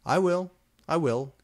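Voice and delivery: high, loud hasty assurance; eager promise. A narrator's reading. Draco hurriedly promising the narrator an explanation, eager. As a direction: rush to reassure her.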